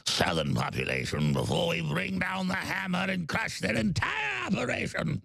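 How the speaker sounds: brief the war plan like a cold British villain; authoritarian British accent. Pretend. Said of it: "Very authoritarian British accent".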